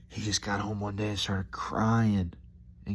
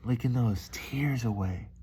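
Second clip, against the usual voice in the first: slow emphatic repeat; 3 semitones higher, slower than usual. Real, not acted.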